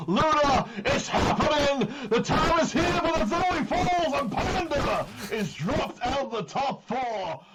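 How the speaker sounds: a touch of hushed drama; slow, falling dramatic reveal; dramatic announcer. Acted. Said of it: "That's a darn tootin' shame".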